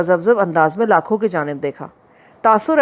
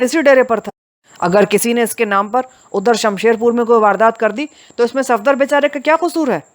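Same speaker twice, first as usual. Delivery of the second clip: insist, voice raised somewhat; 4 semitones higher than usual. Acted. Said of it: "कदरे बुलंद आवाज़ में". (थोड़ी ऊँची आवाज़ में विरोध)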